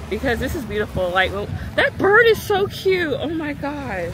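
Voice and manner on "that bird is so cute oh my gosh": delighted. Real, not acted. Spotting a cute bird.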